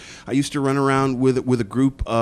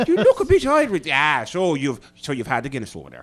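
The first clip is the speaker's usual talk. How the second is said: put-on Irish accent; 3 semitones higher, 3 dB louder than usual. Guest ribs the pale host in an Irish accent. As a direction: tease the host in an Irish brogue. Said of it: "you just became Irish there".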